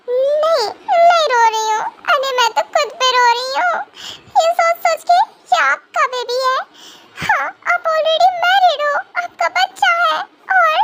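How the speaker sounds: mildly tearful denial turning to complaint; crying. Acted. Asked if she is crying, woman denies it tearfully. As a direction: protest through a touch of tears. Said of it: "तुम रो रही हो?".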